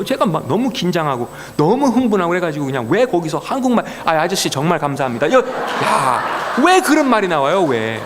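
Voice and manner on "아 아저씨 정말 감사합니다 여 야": laughs through the slip; a sheepish laughing blurt; laughing at himself. Real, not acted. Preacher laughing at his own slip, sheepish.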